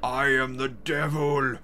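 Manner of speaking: villain in disbelief, slowing down; panicked devil voice. Acted. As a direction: plead like a defeated devil.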